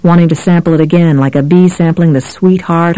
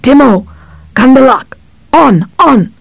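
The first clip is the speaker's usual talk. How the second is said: calling out; 8 semitones higher than usual. A narrator's reading. Cop calls the birds down.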